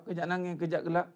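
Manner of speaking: kejap nangis, kejap gelak dengan lebih laju. Shown as a demonstration. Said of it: "mental disorder". (ulang kejap nangis, kejap gelak dengan laju)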